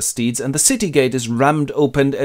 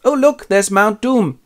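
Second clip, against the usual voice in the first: higher and slow, wide-eyed; mock hobbit wonder; 10 semitones higher, 4 dB louder, slower than usual. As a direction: drawl it out like an awed little hobbit. Hobbit spotting the mountain.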